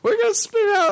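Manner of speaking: very high shrieked panic; mom screaming. Retold or imitated. Mom sure they will crash in the rain, very high shrieked warning. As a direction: scream it like you're about to crash. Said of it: "It's like".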